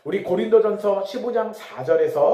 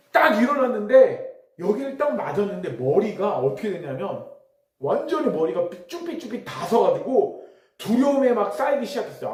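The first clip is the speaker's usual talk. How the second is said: ordinary delivery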